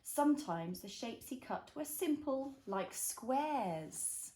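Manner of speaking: slow, gentle picture book reading; reading to a toddler. A narrator's reading. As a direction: read it slowly for a little one. Reads picture book to child.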